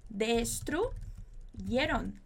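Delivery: Destruyeron, very slow, each syllable drawn out. Shown as a demonstration. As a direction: spell Destruyeron out slowly for the class. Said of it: "Muy bien". (Destruyeron bem devagar, sílaba por sílaba)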